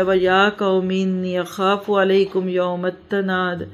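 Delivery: measured Arabic recitation, long vowels; scripture recited in Arabic; Quran recitation. Real, not acted. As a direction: recite the verse evenly and deliberately.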